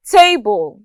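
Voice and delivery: TABLE with the first syllable stressed. Shown as a demonstration. Teacher giving an example of stress, first syllable of "table" stressed. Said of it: "stress falls on the first syllable".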